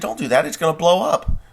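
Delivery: yelled warning about the camera; loud warning. Retold or imitated. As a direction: shout a mock alarm at the agent. Warning agent grabbing camera.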